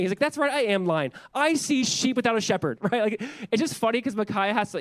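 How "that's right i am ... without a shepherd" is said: sarcastic. Retold or imitated. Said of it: "he's, like, sarcastic in it".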